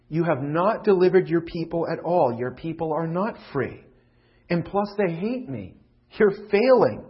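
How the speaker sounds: loud, slow accusing complaint; exasperated Moses. Acted. Moses accusing God, loud and exasperated. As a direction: throw the blame at God. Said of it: "In his exasperation, he says".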